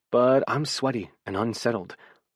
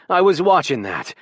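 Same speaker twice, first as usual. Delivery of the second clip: loud, high-pitched protest; indignant yell; 6 semitones higher, 7 dB louder than usual. A narrator's reading. Roommate protests the TV being turned off, yelling indignantly. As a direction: shout it as an outraged complaint. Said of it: "he yells".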